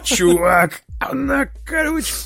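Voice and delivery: high, loud awed voice; mock amazement. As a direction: ham up the amazement, laughing. Joking about round planet.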